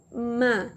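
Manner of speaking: "Ma" starting from a clear m; sounded-out syllable. Shown as a demonstration. Teacher showing the M movement, "Ma" sounded out. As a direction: release the m into the vowel in "Ma". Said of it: "Que movimento é esse?".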